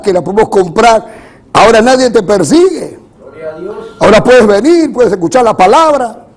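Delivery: forceful, emphatic sermon delivery; preaching. Real, not acted. Preacher contrasts past persecution with today's easy religion, preaching. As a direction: drive each phrase home to the congregation.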